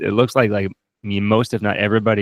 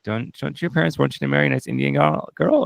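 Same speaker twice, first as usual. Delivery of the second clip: voicing Maxine; 6 semitones higher than usual. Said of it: "Maxine's like".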